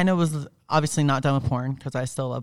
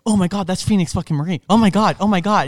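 rising excited gush, louder and louder; starstruck gushing; 3 semitones higher, 6 dB louder than usual. Retold or imitated. Male talent spotting her at the studio, gushing excitedly. Fan spazzed out over her.

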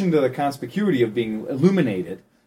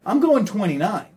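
higher-pitched, measured message to drivers; assertive appeal; 6 semitones higher than usual. Acted. Cyclist messaging car drivers, assertive appeal. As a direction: make the point to drivers, pitched up.

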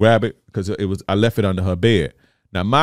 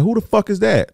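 startled, pitched way up; shocked outburst; 12 semitones higher than usual. Retold or imitated. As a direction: blurt it out in alarmed disbelief. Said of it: "I'm like".

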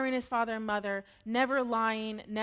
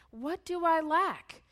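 drawn-out, higher mock question; sarcastic; 6 semitones higher, slower than usual. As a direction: ask it slowly, smugly sarcastic. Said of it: "it's so sarcastic".

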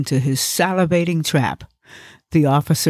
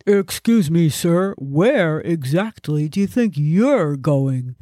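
stern cop voice. Acted. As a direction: question him like a cop. Narrator voices police officer.

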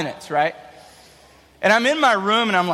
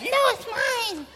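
put-on very high, soft, slow little-kid voice; little brother; 5 dB quieter, slower than usual. Little brother refusing, tiny soft voice. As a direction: play the tiny brother clinging to his toy. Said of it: "he's like".

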